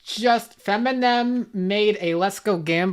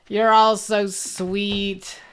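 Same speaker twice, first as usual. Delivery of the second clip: mock touched; 2 semitones higher, much slower than usual. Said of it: "I'm tearing up and getting emotional".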